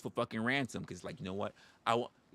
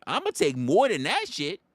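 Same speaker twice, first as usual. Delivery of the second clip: menacing bear; 2 semitones higher, 6 dB louder than usual. Pretend. Voicing the bear, threatening.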